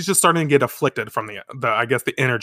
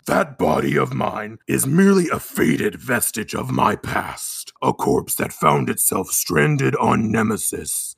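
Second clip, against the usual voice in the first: booming Wiseman voice; 3 semitones lower than usual. Acted. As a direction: speak as an ancient planet-sized evil. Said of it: "I'm gonna shift my voice a little bit".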